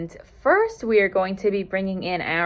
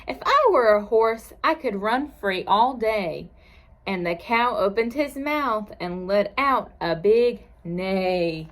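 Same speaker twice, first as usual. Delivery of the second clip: lilting picture-book narration; reading to children. A narrator's reading. Teacher reads a farm story to children, lilting. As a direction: read the rhyme aloud with a gentle swing in pitch.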